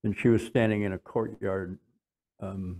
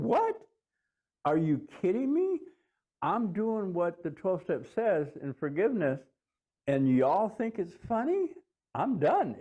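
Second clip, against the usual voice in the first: much higher, outraged squeak of disbelief; indignant disbelief; 8 semitones higher than usual. Retold or imitated. Man forgiving his wife, outraged the spirits laugh, much higher. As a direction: protest to the laughing spirits, pitched way up. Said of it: "And I'm going".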